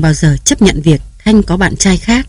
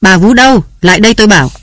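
higher and louder summons; loud shout; 3 semitones higher, much faster than usual. Acted. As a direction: bellow for the servant to come. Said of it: "Tiếng bà Nam hét to".

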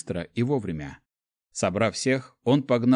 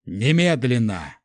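shouting; 4 dB louder, slower than usual. A narrator's reading. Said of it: "закричал герцог Астрель".

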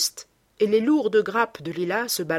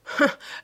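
short laugh. A narrator's reading. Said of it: "s'exclama en riant Lord Henry".

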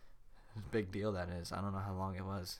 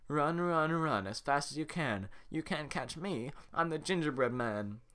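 mocking singsong; 6 semitones higher than usual. Farquaad taunting with the legs.

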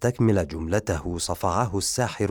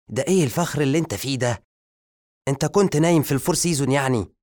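1 mocking sarcasm; 7 semitones higher, 3 dB louder, much faster than usual. Assistant mocks zombie.

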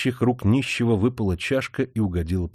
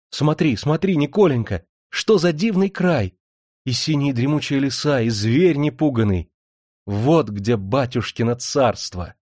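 a touch of the delighted wife, a bit higher; breathless delight; 4 semitones higher than usual. Acted. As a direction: gush over the lands to her husband. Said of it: "Захлёбываясь от восторга, она поминутно восклицала". (жена восторженно показывает мужу край)

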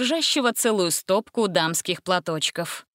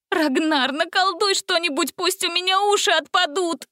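much higher desperate begging; desperate plea; 10 semitones higher than usual. A narrator's reading. Gretel begs Ragnar for a spell, much higher. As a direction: beg for any spell.

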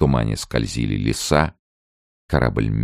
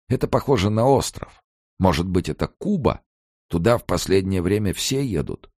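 put-on higher, fussy old man musing; old emigrant voice; 8 semitones higher than usual. A narrator's reading. Morets muses about prison and reading Hemingway, higher fussy voice. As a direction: muse like a wry old grumbler.

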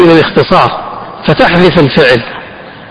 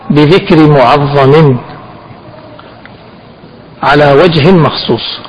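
slow dictation; slower than usual. Shown as a demonstration. Sheikh dictating a definition.

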